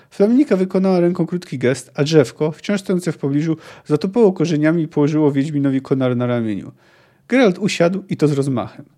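fluent audiobook reading with acted dialogue; story narration. A narrator's reading. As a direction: read the novel aloud, voicing the quotes. Resumes reading the novel. (czytanie powieści na głos)

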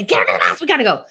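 rushed mock command with jumping pitch; brusque parent. Parent hurrying a child out, brusque order. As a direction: rattle it off as a curt order. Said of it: "If you just say".

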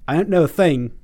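put-on light British accent, half laughing; a passable go at his London accent; mock British accent, laughing through it; Boyega's British accent. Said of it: "Should I do his accent?".

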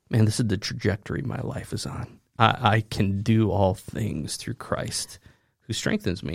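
Paul brooding quietly to himself; hushed and weary inner voice; quiet musing. Retold or imitated. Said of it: "thinking to himself".

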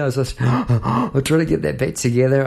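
gasping for air after the cold run; out of breath. Real, not acted. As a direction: catch your breath between words. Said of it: "I had to get my breath".

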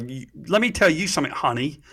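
finger-wagging telling-off, playfully imitated; Oprah Winfrey. Telling off the woman from L A on the panel, sassy mock scolding. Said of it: "Oprah Winfrey, wag my finger".

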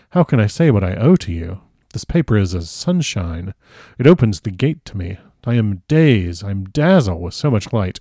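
grateful, dazzled foreign professor; emphatic, accented outpouring of thanks; Van Helsing. Acted. Van Helsing overwhelmed with gratitude.

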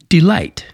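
delight, slow, with LIGHT stressed; stress on second syllable. Shown as a demonstration. Teacher showing an iamb to listeners, delight stressed on LIGHT. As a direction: keep the de of delight weak and lean on light. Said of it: "not emphasized and light is".

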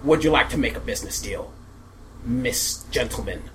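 scheming German villain voice; villain accent. Acted. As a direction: boast like a mad inventor. Villain boasts of fatherland army.

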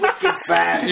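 laughing mock Boston slang; hammed-up Boston, R dropped; South Boston accent. Playing along about his brother, South Boston accent. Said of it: "Is your brother from South Boston?".

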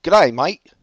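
high, loud, hammed-up Aussie greeting; overdone Australian accent. Co-host joking about overdone radio accents, mock Australian accent. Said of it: "overdone Italian accents be like".

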